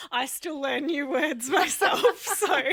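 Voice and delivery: speaking through real laughter; amused, laughing as she agrees. Real, not acted. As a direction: chuckle your way through the words. Laughing along with guest.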